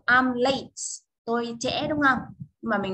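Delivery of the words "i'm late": slow example. Shown as a demonstration. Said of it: "Ví dụ".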